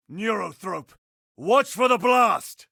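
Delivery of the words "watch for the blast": high, urgent shouted warning; combat alarm. Acted.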